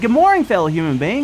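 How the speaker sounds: ordinary talk, nothing marked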